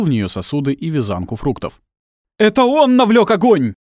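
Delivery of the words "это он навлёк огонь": high, loud accusing shout; booming shout. A narrator's reading. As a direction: thunder the accusation from afar. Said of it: "загремел вдалеке голос".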